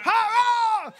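high, loud laughing Kara; laughing attack cry; martial arts shout. Pretend. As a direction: yell it like a taekwondo strike. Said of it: "That's what you shout when you attack".

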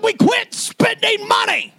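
high, loud grandfather shout; loud yelling granddad. Retold or imitated. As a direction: yell it like an old man scolding. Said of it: "Then he got really loud".

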